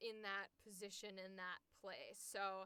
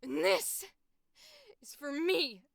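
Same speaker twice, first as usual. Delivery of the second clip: vengeful fury draining into hurt; tearful rage; 3 semitones higher, 8 dB louder than usual. Acted. Avenger finally facing who wronged her, tearful and spent rage. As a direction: come down from the scream, nearly crying. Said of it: "hear her, like, crying in that".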